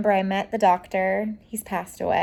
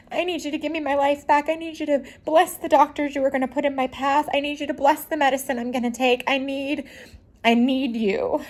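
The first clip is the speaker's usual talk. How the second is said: raised, pleading prayer to God; retelling a desperate prayer on a park bench; crying out to God; 5 semitones higher than usual. Retold or imitated. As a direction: beg God for help, voice lifted and aching. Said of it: "Like, I was crying out".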